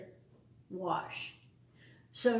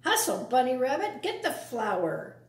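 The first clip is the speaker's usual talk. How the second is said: barking orders. Acted. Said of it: "barking orders".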